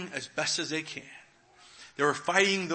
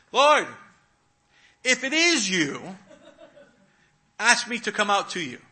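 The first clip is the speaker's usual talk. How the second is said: Peter calling; 6 semitones higher, 8 dB louder than usual. Retold or imitated. Peter voiced in sermon.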